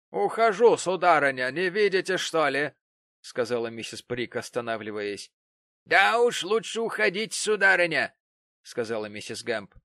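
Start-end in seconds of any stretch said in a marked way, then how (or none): 0.1-2.7 huffy retort. Acted. Prig answers Gamp's dismissal. 5.8-8.1 loud sneering dismissal. Acted. Gamp sends Prig off.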